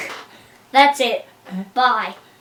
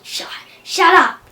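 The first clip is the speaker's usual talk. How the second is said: impatient shut up; 3 semitones higher, 4 dB louder than usual. Retold or imitated. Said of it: "he said, again".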